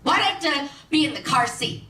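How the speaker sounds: a hint of kid whine; young daughter. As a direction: imitate a small child questioning mom. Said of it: "she says to me in the car".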